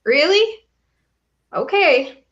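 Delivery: skeptical disbelief. Retold or imitated. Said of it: "I'm like".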